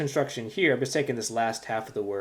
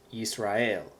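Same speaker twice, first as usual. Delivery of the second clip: Yisrael as yees-rah-EL; weight on the final EL of Yisrael; stress on last syllable. Shown as a demonstration. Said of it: "The accent is on the last syllable".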